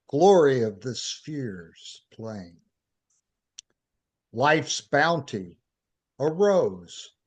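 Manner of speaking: slow, measured poem reading with long pauses; poetry recitation. Acted. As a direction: recite a devotional poem, line by line. Reads own poem aloud.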